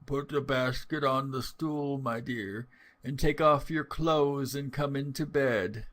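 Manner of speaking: put-on wolf lightly faking a weak old voice; a touch of frail grandmother; mildly put-on feeble granny; feigned feeble voice. A narrator's reading. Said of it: "trying all he could to speak in a feeble voice".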